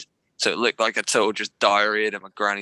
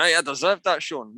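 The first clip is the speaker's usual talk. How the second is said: put-on Scottish accent; 5 semitones higher than usual. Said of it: "Maybe not in a Scottish accent".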